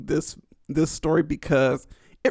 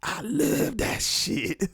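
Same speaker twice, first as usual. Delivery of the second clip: softer, slowing down into a hushed mock fan; 6 dB quieter than usual. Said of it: "someone out there like".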